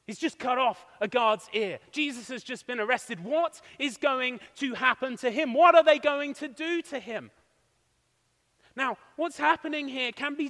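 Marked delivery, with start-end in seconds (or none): 3.2-7.3 voicing Peter's rising alarm; a touch of panic, louder on the last question; mock panic. Preacher voicing Peter's fears after the arrest, mild panic. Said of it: "Peter panics".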